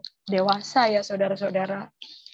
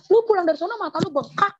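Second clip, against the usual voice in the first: lightly voiced sister, high and teasing; imitating sister; 7 semitones higher, faster than usual. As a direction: poke at her swollen eyes. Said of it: "kata gitu". (sedikit menirukan kakak yang menyindir)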